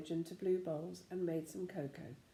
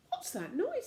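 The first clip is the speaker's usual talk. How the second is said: sudden alarm; 3 dB louder than usual. A narrator's reading. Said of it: "said Goldilocks suddenly".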